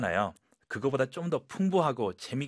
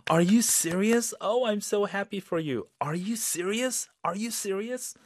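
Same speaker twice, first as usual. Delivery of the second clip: much higher, thrilled and slow; excited and happy; 9 semitones higher, much slower than usual. Shown as a demonstration. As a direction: sound truly happy for a friend. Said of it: "very up and exciting and very happy". (신나고 기쁜 말투)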